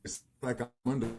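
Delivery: muffled underwater connection; garbled, submerged-sounding line. Real, not acted.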